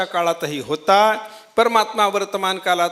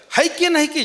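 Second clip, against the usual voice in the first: higher mock donkey hee-haw; donkey's doubting cry; 8 semitones higher than usual. Preacher imitating the donkey's doubting cry, higher. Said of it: "जास्त असतं".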